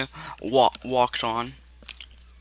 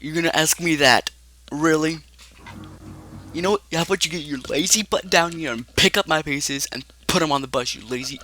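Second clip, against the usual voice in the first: higher, exasperated scolding, easing at the end; telling Foxy off; 4 semitones higher than usual. Acted. Freddy's scattered head tells Foxy off, mildly angry scolding. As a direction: scold in character, mildly heated. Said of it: "goes off on Foxy".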